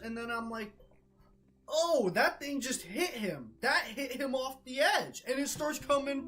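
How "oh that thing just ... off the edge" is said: high, loud alarmed exclaim; alarmed realization. Retold or imitated. Gamer sees his friend knocked off, alarmed. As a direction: it just dawned on you, alarmed.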